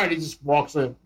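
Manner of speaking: ordinary delivery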